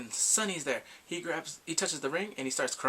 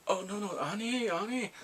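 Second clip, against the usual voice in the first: scolding teacher; 6 semitones higher than usual. Retold or imitated. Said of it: "and the teacher's like".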